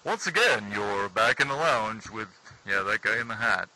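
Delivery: smooth radio host intro. Pretend. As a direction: announce it like a DJ. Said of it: "that's my radio voice".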